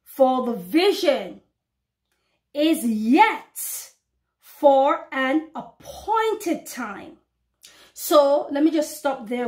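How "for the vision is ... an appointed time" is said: slow, solemn Bible reading; preacher reading scripture slowly to her flock. Acted. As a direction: read the verse slowly, weighing each word. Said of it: "The Bible reads".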